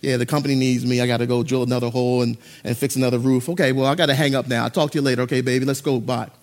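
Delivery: low, lightly voiced lovestruck boyfriend; lovey phone talk. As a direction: murmur sweet talk into the phone. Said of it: "you were on the phone talking to Lori Beth".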